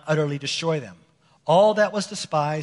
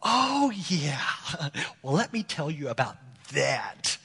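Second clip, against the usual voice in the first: sheepish caught-out Saul; 2 semitones lower, 5 dB quieter than usual. Retold or imitated. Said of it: "And Saul's like".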